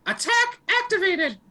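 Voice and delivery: high stiff robotic announcement. Retold or imitated. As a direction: chirp it like a machine. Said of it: "like in a robot voice".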